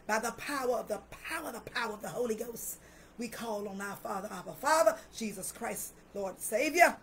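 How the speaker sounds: rising preacher's prayer, building to calls; fervent preaching prayer. Real, not acted. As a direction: pray it out over the congregation with force. Preaching and praying over listeners.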